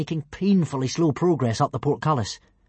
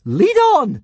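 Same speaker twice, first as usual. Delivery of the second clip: mad laugh; 12 semitones higher, 7 dB louder than usual. Acted. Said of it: "with a slightly mad laugh".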